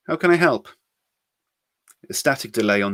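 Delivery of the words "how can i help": raised, louder, smiling offer of help. A narrator's reading. Joanne answering the caller with an offer of help, smiling. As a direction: say it brightly through a smile. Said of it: "she said, smiling".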